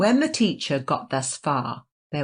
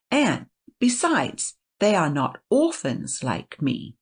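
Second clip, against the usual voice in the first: aggrieved seven's lament; 2 semitones higher, 3 dB louder than usual. Acted.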